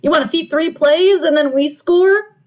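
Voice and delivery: playful comeback swagger; cocky team voice. Acted. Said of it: "Denver comes back. Is like".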